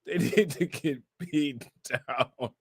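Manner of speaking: slow, soft, dissolving into laughs; breaking into laughter. Real, not acted. Streamer joking about the post's maker, dissolving into laughter. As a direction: squeeze it out softly while laughing. Repeating it while cracking up.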